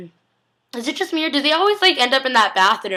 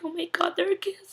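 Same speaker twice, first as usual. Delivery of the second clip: squealing excitement; 8 semitones higher, 8 dB quieter than usual. Retold or imitated. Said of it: "I was like".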